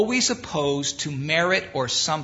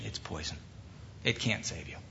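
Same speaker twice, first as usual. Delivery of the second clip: hushed punchline; 10 semitones lower, 12 dB quieter than usual. Acted. Drops voice for the punchline.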